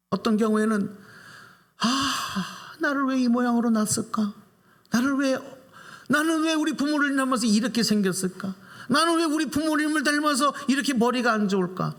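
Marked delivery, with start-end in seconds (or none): 1.8-11.9 high-pitched, acted-out complaint about one's lot; resentful lament. Preacher voices a child blaming parents for looks and brains, resentful lament. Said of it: "이렇게 원망해도 어쩔 수 없어".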